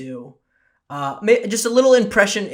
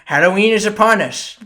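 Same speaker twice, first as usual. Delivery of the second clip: mock proclamation; 4 semitones higher, 6 dB louder than usual. Echoes guest's line in mock announcement.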